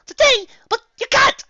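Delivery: very high, loud dismay; shocked. A narrator's reading. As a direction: gasp it out. Rarity shocked by the date.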